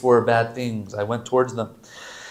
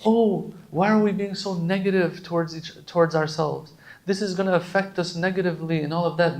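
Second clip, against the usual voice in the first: imagined objector; 5 semitones higher than usual. Acted. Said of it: "Now someone here might say".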